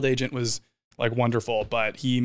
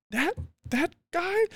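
high, slow incredulous question; can't believe she means him; disbelieving; 3 dB quieter, slower than usual. Retold or imitated. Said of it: "I was like".

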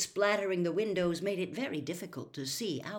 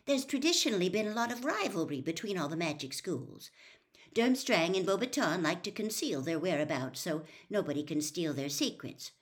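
matter-of-factly. Acted. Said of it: "said Hermione matter-of-factly".

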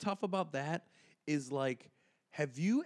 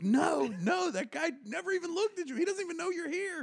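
high, urgent pleading; 12 semitones higher than usual. Retold or imitated. Friends at the bar urging Frank there's no fight, high and urgent. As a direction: talk him down fast.

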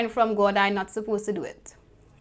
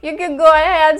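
higher-pitched, lightly coaxing supporters' voices; imitated encouragement; 6 semitones higher than usual. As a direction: imitate friends gently urging someone on. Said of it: "who were supporting me".

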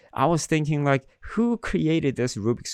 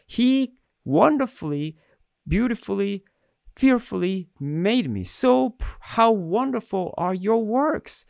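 much higher, lifted praising voice; exalted praise; 10 semitones higher than usual. Acted. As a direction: soar up as if proclaiming the psalm. Exalted reading of the psalm.

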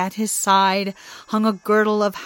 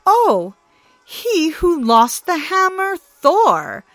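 mocking god's voice, raised; Loki taunting; 3 semitones higher, 6 dB louder than usual. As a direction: push the blame on Thor with glee. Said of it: "said Loki".

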